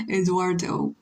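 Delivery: Eduardo said the English way, full English r and hard t-like d; English pronunciation. Shown as a demonstration. Streamer comparing two languages, English pronunciation of Eduardo. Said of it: "in English you say".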